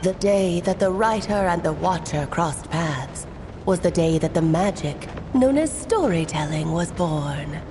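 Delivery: low, grand storyteller voice put on; disguised impression. Alice hiding her identity from Durin in a low storyteller voice. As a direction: deepen the voice to sound like a mysterious narrator. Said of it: "need to work on my impression".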